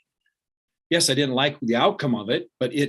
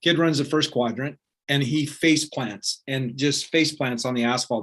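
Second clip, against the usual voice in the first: normal talking voice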